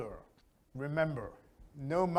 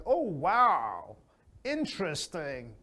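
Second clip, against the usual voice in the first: interested; slower than usual. Shown as a demonstration. Teacher showing the right way, interested. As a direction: sound truly interested in "Oh, wow, interesting". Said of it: "That is how you express interest".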